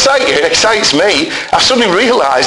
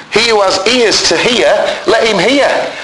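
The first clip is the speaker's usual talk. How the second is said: calling out; 5 semitones higher than usual. Retold or imitated. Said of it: "he would call out".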